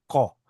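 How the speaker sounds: ko with a k made far back in the throat; throaty kuf. Shown as a demonstration. Teacher contrasting Hebrew letters, ko with a back kuf sound. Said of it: "originally sounds different than a kaf".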